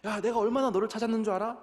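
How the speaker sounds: mother Mary scolding her son. Retold or imitated. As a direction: scold the lost child like a frantic mom. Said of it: "라고 어머니 마리아가 예수님께 말씀을".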